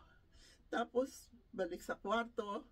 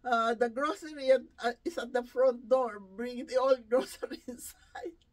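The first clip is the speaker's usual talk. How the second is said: louder mock instruction; imitating an employer's order; 2 semitones higher, 7 dB louder than usual. Household employer ordering caregiver about groceries, imitated call. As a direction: call out the errand, slowing at the end.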